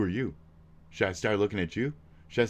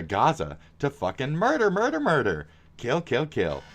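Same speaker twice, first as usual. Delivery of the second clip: sarcastic; 3 semitones higher than usual. Acted. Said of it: "That's sarcasm".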